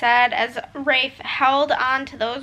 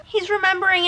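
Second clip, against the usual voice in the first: emotional sob; 6 semitones higher than usual. Real, not acted. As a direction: break into a real sob. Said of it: "B R B sobbing".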